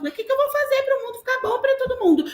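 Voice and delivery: very high, rushed mock-pupil question; squeaky-high imitation of children, quick; pupils' protest. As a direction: imitate a bewildered pupil pleading with teacher. Acts out pupils questioning the teacher.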